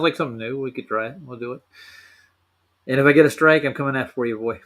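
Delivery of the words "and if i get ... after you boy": playful mock threat, louder. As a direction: pretend to threaten a buddy. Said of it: "just messing with you".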